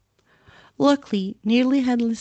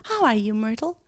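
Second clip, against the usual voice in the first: forced cheerful greeting; bright fake friendliness; falsely bright; 2 semitones higher than usual. Hermione greeting Myrtle, falsely bright. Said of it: "in a falsely bright voice".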